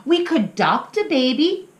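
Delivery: put-on high, eager child voice; little pup voice. Little pup asking his mama, high and curious.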